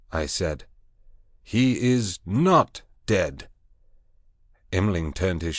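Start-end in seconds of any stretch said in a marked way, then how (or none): 1.4-3.5 high, loud commanding proclamation; proclaiming loudly. Acted. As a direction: lift the voice over the beasts. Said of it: "lifted up my voice".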